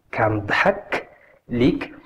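careful model with a pause before ليك; repeat-after-me demo. Shown as a demonstration. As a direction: split it up for learners to copy. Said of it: "Try to repeat".

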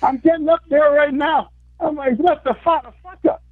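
high, frantic disbelief; replayed panic. Retelling walking up to accept the award, frantic excitement. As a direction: blurt it like you're walking to the stage in shock. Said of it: "I was just like".

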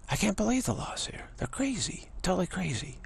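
high, amazed voice; can't believe what they're hearing; incredulous. Retold or imitated. Newcomer to speaker, incredulous and high about the laws.

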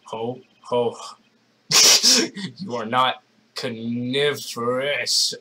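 lightly voiced low villain; a hint of a sinister stranger; masked villain voice. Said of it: "it's like the masked voice".

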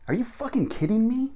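high-pitched indignant question; acted incredulity. Shown as a demonstration. Teacher acts an example sentence, incredulous. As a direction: shoot up high in disbelief.

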